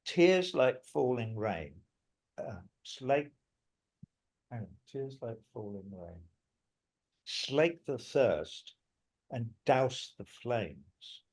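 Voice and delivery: slow, measured recitation of his own verse; slow poetic recital; recited lyric. Shown as a demonstration. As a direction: read the lyric slowly, weighing each phrase. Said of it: "there's a bit that I wrote, though, that goes".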